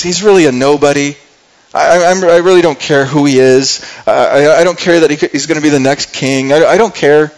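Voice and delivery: mildly dismissive, emphatic paraphrase; lightly acted disdain; slandering, downplaying Nabal. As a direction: brush him off as unimportant. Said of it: "kinda slandering and kinda, uh, downplaying".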